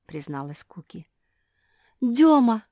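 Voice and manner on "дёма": loud startled cry of a name; scared shout; frightened cry. A narrator's reading. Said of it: "испугалась Фенечка".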